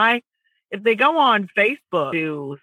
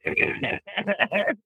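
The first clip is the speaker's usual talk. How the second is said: horse whinny; 6 dB quieter than usual. Shown as a demonstration. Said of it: "That's your hoarse voice".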